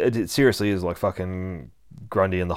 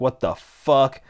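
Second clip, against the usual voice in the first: surprised; 5 semitones higher, 6 dB louder, slower than usual. Retold or imitated. Jason surprised by a poke.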